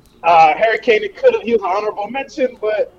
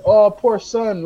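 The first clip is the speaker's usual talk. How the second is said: mock pity; slower than usual. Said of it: "everybody's just like".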